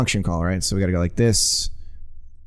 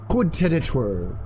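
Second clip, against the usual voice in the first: softer, airier fake French Coup de territoire; mock French; 3 semitones higher, 4 dB quieter than usual. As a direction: toss the fake phrase off quietly.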